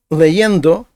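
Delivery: leyendo with the stress on YEN; stress on second-last syllable. Shown as a demonstration. Teacher shows learners where leyendo takes its accent, stress on YEN. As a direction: lean on the middle syllable of "leyendo". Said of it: "наголос падає на передостанній склад".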